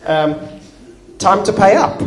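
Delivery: a king casually calling in the debt; demanding king. Retold or imitated. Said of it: "the king comes and says".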